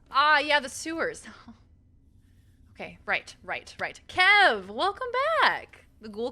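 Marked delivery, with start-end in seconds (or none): 4.1-5.9 loud, high welcome with stretched vowels; excited greeting. Real, not acted. Streamer greeting Kev back to the chat, excited call. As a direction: call out a big, happy hello. Calling a greeting to arriving viewer.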